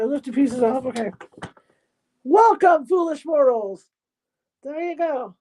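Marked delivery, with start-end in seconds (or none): 2.2-3.9 booming demon lord. Retold or imitated. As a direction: boom it out like a haunted house host. Quotes Haunted Mansion ghost host.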